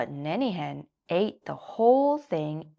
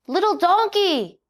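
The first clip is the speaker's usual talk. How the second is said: high, louder greeting call; shouting; 14 semitones higher, 8 dB louder than usual. A narrator's reading. Jackie calls to his friend Little Donkey. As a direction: call him over gleefully. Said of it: "shouted Jackie".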